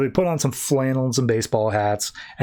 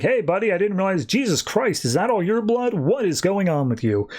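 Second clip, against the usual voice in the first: higher, alarmed friend's voice, lightly acted; a startled buddy seeing all the blood; shocked Flash; 7 semitones higher than usual. Flash sees his bloodied friend, higher, shocked.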